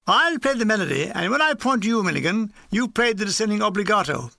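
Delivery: a hint of a major giving orders; army major instructing. Major assigning musical parts to two gunners, lightly commanding.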